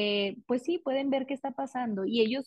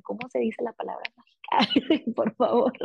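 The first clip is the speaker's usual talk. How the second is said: kind coaxing. Retold or imitated. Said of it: "de manera muy amable".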